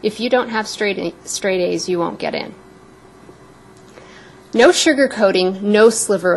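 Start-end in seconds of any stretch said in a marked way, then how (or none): 0.0-2.5 matter-of-fact. Retold or imitated. Director turning down a hopeful student, very matter-of-factly. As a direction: imitate a straightforward director, no softening. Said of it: "very matter-of-factly".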